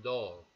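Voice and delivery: "dog" with a short o vowel; dog con O; English dog. Shown as a demonstration. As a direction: clip "dog" with an open o. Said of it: "doble O suena O".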